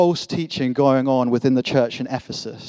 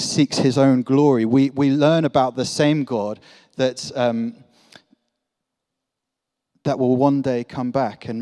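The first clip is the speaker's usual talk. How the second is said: building preaching; 4 dB louder than usual. Acted. Sermon builds to climax.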